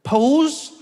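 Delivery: "pose" drawn out, rising, high; South African slang. Retold or imitated. Team member reading the fans' word, "pose" rising. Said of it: "this one word".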